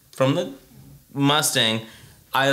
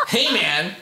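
urgent greeting; 4 semitones higher than usual. Shown as a demonstration. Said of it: "It's more urgent".

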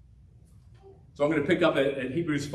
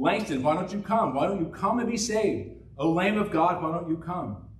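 preacher's plea; 4 semitones higher than usual. Retold or imitated. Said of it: "the minister saying".

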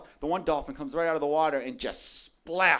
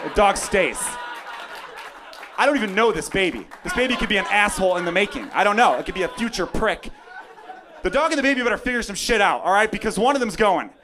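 comic loud rant; 5 dB louder than usual. Real, not acted. Ranting dog over baby.

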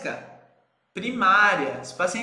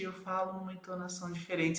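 much softer and quicker, dropping into sadness; sad demo; 3 semitones lower, 11 dB quieter, faster than usual. Shown as a demonstration. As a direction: show a deflated, sad tone by going quiet. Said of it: "quando eu tô triste".

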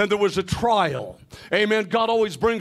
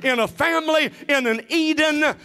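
driving, insistent sermon delivery; impassioned preaching; 2 semitones higher than usual. Real, not acted. Preacher declaring Satan's defeat to the church, impassioned preaching. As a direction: preach it emphatically, lifting toward each climax.

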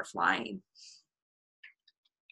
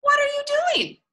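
very high raccoon character voice; high-pitched, nosy raccoon; curious Raccoon; 4 dB louder than usual. A narrator's reading. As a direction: ask it high, like a little animal. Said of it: "said Raccoon".

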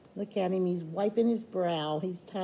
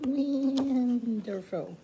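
slow repeat; 4 semitones higher, much slower than usual. Shown as a demonstration. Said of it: "repeats the pony's line".

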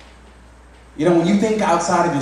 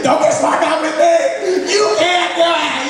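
mock stern dad; 5 dB louder, slower than usual. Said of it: "dad scolding sarcastic child".

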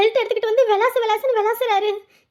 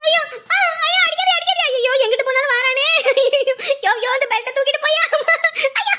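wailing in sleep; 3 semitones higher than usual. Acted. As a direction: plead with the attacker. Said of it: "இப்படி அலறிட்டு இருக்கு". (தூக்கத்தில் அலறும் குரல்)

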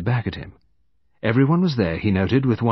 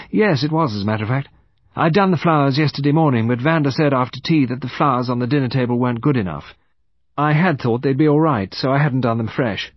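brisk, higher-pitched, louder account; young woman explaining; 4 semitones higher, 4 dB louder than usual. Acted. Woman accounting for her movements to detective, readily.

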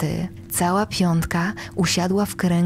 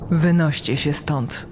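cold and despairing; 3 semitones lower than usual. Acted. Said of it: "rzucił chłodno zrozpaczony Roger".

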